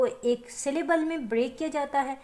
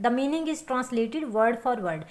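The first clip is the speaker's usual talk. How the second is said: 1 slow definition; much slower than usual. Shown as a demonstration. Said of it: "teacher dictates definition slowly".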